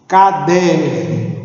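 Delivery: "Caderno" slowly, in separate syllables; syllables separated. Shown as a demonstration. Teacher shows a word of three syllables, slowly divided. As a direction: draw out CA and DER in "Caderno". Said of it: "Uma palavra formada por três sílabas".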